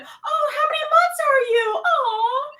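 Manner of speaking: high, cooing voice with a teary catch; gushing coo. Retold or imitated. Sister cooing to the woman she thinks is pregnant. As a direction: coo over the belly like a doting aunt. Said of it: "And she's, like, rubbing on her tummy".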